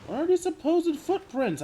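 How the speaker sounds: very high, baffled demand; exasperated question. Real, not acted. Player doubting the supposed footprints, high exasperated question. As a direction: pitch it right up in disbelief.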